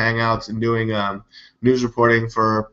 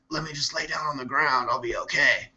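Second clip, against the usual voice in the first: mock wounded cop; 3 semitones higher, 8 dB quieter than usual. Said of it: "so he's like".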